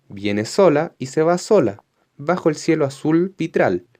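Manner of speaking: reading a poem aloud to a class, lilting; poem recitation. Acted. Teacher reciting the poem for her pupils, lilting read. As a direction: let each rhymed line ring out.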